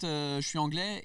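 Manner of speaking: je suis anglais in smooth native French, anglais said the French way; easy native French delivery; flawless French accent. Retold or imitated. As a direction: say je suis anglais like a born Parisian, no trace of English. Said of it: "with my perfect French accent".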